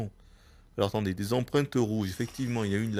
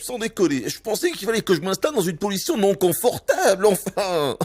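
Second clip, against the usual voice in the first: laughing sarcasm; 9 semitones higher, 6 dB louder than usual. Real, not acted. Mocking the tutorial instruction.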